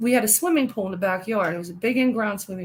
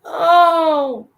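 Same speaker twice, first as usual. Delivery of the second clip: loud higher oh of realisation; startled loud oh; sudden oh; 6 semitones higher, 8 dB louder than usual. Real, not acted. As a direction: burst out with it.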